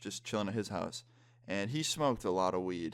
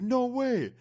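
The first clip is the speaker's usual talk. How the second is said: very high, loud imitation of disbelief; mock disbelief; 6 dB louder than usual. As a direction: squeal it high, imitating an amazed friend. Retold friend's amazed reaction.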